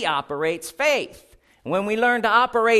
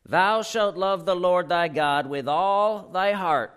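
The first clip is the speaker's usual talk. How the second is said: slow, measured reading of "Thou shalt love the Lord thy God"; read slowly; slower than usual. Shown as a demonstration. Preacher reading the verse aloud to the church, slowly. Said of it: "let's read this slowly".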